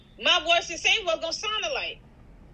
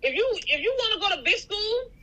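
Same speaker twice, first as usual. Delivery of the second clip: mom lecturing son; 5 semitones higher than usual. Retold or imitated. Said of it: "This is how I'm talking to him".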